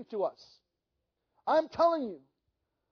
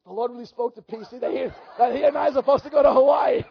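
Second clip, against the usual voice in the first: laughing quote; 6 dB louder than usual. Retold or imitated. George telling his wife, laughing.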